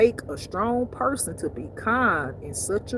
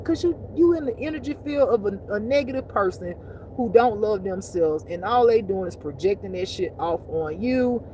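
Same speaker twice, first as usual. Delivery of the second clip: ordinary delivery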